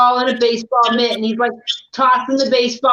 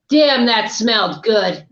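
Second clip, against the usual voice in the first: mock satisfied punchline; 3 semitones lower, slower than usual. Cartoon man's calm punchline after tirade.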